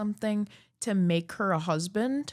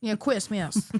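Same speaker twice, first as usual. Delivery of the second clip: Cable Guy lisp; 2 semitones higher, slower than usual. Retold or imitated. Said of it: "with the lisp from The Cable Guy".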